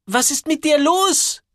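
high, slow, baffled question; drawn-out bewildered demand; puzzled astonishment. A narrator's reading. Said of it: "Sie sieht ihn verwundert an".

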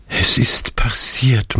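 bitter whisper; murmured. A narrator's reading. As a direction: whisper it in despair. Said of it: "murmelte er".

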